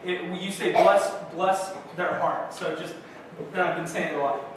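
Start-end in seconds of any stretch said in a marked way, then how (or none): 0.7-2.5 slow Southern drawl on "Bless, bless their heart". Shown as a demonstration. Pastor demonstrating the Southern saying, slow Southern drawl. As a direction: lean into a Southern lilt, slowly. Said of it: "That's the Southern thing you do".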